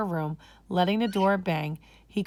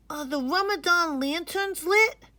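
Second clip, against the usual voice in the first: put-on high, bright boy's question; eager young boy; 11 semitones higher, 3 dB louder than usual. Boy eagerly asking his grandfather about lanterns. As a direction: ask like a child waiting all day. Majid asks Giddu eagerly.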